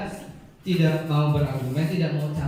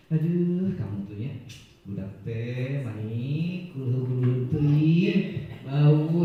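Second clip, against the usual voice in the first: guilt-tripping teacher; slower than usual. Acted. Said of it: "ini kan ya gitu ya".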